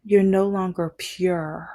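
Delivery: lightly voiced ex drawing out the verdict; slow mock pronouncement; mock ex-girlfriend. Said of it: "she was like".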